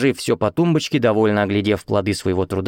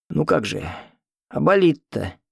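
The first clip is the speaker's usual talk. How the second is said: whining; 5 semitones higher than usual. A narrator's reading. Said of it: "заныл старик".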